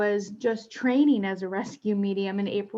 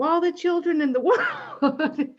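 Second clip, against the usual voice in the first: laughing; 8 semitones higher, 4 dB louder than usual. Real, not acted. Medium telling the host her calling, laughing as she says it. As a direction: vow broken by a laugh, higher and louder.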